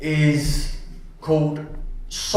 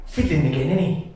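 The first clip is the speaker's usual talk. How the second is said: dramatic poem reading; faster than usual. Acted. Woman watching a film beside a fidgeting partner, exasperated poem reading. Performs poem of irritated couple.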